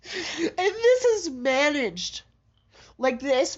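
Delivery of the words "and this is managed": crying, drawn out slowly; slow tearful words. Real, not acted. Vlogger insisting to viewers her condition is managed, slowly, crying. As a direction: let the tears slow each word. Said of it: "what you're listening to right now is an episode".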